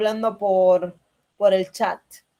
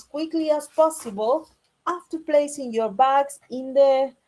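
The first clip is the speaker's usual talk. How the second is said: reading a boarding announcement aloud; calm cabin crew announcement; flight attendant announcement. Shown as a demonstration. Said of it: "I'm going to read it first".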